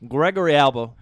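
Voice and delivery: put-on eulogize him in the southern accent; mock-solemn southern eulogy. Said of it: "you have to do the eulogy in, in that voice".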